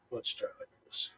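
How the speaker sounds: speaking away from the microphone; far from the mic. Shown as a demonstration. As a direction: lean back from the mic. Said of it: "Does it sound like I'm far away now?".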